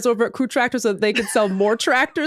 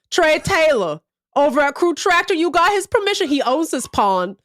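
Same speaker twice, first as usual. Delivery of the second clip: Southern redneck; 5 semitones higher than usual. Retold or imitated. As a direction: lay down the law like a local. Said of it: "foghorn leghorn".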